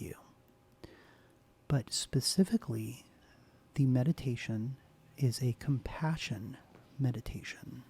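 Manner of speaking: soft ASMR whisper; soft spoken voice. Real, not acted. ASMR host welcoming her viewers, soft whisper. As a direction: hush it gently, close to the mic. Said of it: "to do this in a soft spoken voice".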